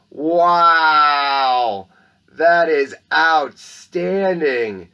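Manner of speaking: loud, very slow, drawn-out wow; lavish the praise on the painting; awed praise. Acted. Principal praising a student's gift painting, slow awed wow.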